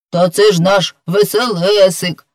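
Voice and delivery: lively exclamation of recognition; exclaiming. Acted. Grishka recognises a friend, exclaiming. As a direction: call it out on recognising him. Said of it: "вигукнув Гришка".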